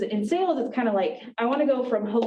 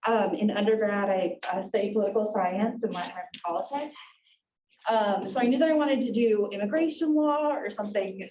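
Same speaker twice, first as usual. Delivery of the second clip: out of breath after rushing in. Real, not acted. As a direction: talk while still catching your breath. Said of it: "catching my breath from rushing".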